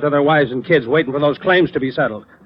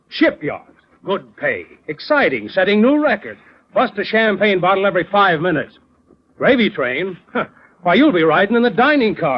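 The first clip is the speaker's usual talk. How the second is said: mocking sales pitch, a bit higher at the end; sarcastic; 4 semitones higher than usual. Boss to quitting clerk, sarcastic mock pitch. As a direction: sneer at him for taking the easy job. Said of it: "You don't have to talk like that".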